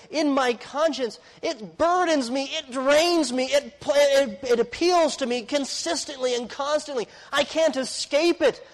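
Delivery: high, slow, burdened pleading; preacher voicing Paul's relentless burden; Paul's anguished confession. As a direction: voice Paul pressing out his inner burden. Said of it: "what Paul is saying there".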